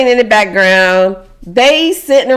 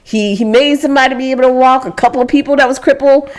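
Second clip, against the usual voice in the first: a lightly voiced, higher, gossiping disciple; chatty apostle; 5 semitones higher than usual. Apostle gossiping at the table about Jesus's miracles. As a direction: hype up the last miracle, half-joking.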